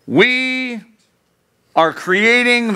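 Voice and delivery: a hint of Trump announcing; Trump impression. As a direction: start a grand Trump boast, slowly. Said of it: "I can't do a Trump impression".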